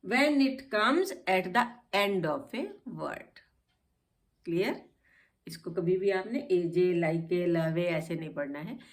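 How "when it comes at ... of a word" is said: very slow, deliberate answer; slow rule. Shown as a demonstration. Teacher answering her own question slowly for the class. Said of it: "तो ई कहाँ silent है".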